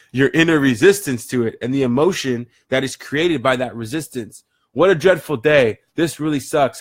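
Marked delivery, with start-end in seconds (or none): 4.7-6.8 mock complaining. Shown as a demonstration. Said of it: "How do you feel right now?".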